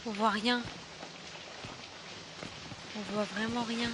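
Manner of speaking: soft, nervous murmur; hushed scared voice. Real, not acted. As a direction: keep it low while sneaking. Sneaking in the dark. (voix basse et inquiète)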